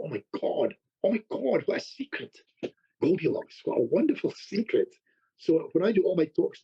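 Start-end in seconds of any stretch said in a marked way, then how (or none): 0.0-4.9 imitating a revelation. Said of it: "I thought".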